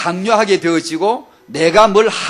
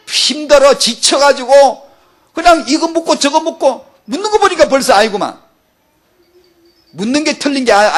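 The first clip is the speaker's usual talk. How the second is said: loud, higher scolding sermon; scolding preaching; 6 semitones higher, 3 dB louder than usual. Acted. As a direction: preach the rebuke with force. Preacher scolds believers at full force.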